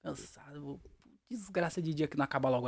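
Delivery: hushed, low, dejected grumble; acted misery, trailing down very quiet; mock sad. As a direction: drag it out softly like someone worn out by a rotten day. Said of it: "quando você tá triste".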